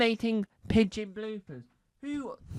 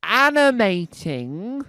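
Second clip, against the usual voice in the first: animating drawn out slow and loud, rising at the end; stressed again; 2 semitones higher, 9 dB louder, slower than usual. Shown as a demonstration. Insisting on the word to the crowd, slow and loud. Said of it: "I'll say it once more again".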